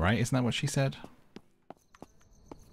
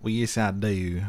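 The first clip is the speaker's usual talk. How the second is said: Wild West drawl; 3 semitones lower than usual. Pretend. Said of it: "this is the voice that I would go with if I was in the Wild West".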